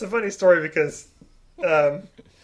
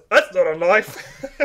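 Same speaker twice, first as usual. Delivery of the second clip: very slow, higher Aussie drawl, laughing; mock Australian accent; 4 semitones higher, much slower than usual. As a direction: drag out the Australian catchphrase. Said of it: "someone says something about Australia, and he goes".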